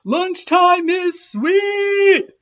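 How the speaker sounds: high, loud and slow happy yell. A narrator's reading. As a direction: stretch it out with glee. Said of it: "yelled Clark the Shark".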